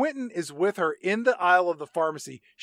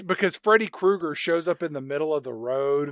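ordinary talk

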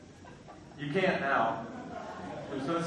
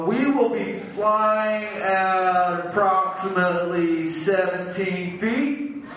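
mock pilot announcement. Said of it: "stoned pilot announcement".

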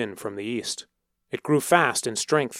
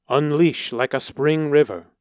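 louder booming command; roaring sky voice; 3 semitones higher, 5 dB louder than usual. A narrator's reading. Voice in the sky commands the storm, loud roar. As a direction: call down the river's flood. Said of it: "the voice in the storm roared".

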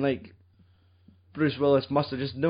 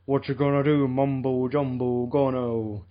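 mock mumbling. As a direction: lightly imitate concussed action heroes muttering nonsense. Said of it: "they can all just mutter".

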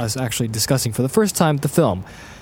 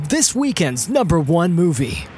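slow, higher announcer delivery; mock movie announcer; 4 semitones higher, slower than usual. Host introducing the weekend movie, slow announcer style. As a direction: draw it out like a promo.

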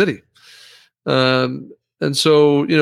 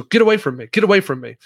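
firm command demo; 4 semitones higher, faster than usual. Shown as a demonstration.

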